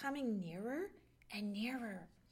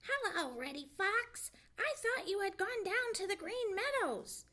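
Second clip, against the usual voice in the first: higher, louder mock-surprised greeting; feigned surprise; 9 semitones higher, 4 dB louder than usual. A narrator's reading. Jay greeting the fox with fake surprise. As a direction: act surprised, innocently. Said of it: "as if he was very much surprised".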